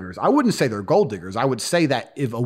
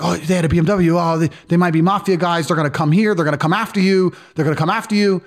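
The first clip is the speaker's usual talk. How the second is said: panicked receptionist; 5 semitones higher, 3 dB louder than usual. Retold or imitated. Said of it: "she started really having, like, a panic attack".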